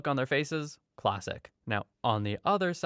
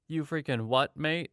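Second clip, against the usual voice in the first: put-on South London accent; 3 semitones higher than usual. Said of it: "in my clearly from South London accent".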